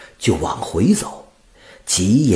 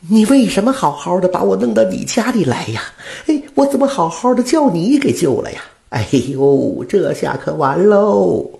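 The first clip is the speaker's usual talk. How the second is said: high, louder angry scolding; angry old woman; 11 semitones higher, 4 dB louder than usual. Acted. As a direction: scold him, upset and blaming. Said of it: "气得指着屠夫就说了". (老太太气得指着屠夫责骂)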